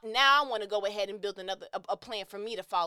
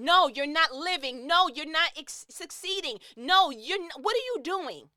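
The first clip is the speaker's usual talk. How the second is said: worked up; 5 semitones higher, 4 dB louder than usual. Real, not acted. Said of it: "'cause I'm worked up".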